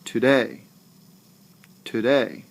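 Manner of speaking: Today with a light To and stronger day; stress on second syllable. Shown as a demonstration. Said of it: "my voice actually rises".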